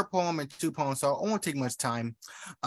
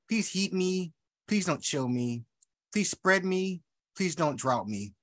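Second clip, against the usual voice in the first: poem reading. Acted. Poet reading her flower poem, alternating rise and fall. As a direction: call and answer, rising asks then falling refusals.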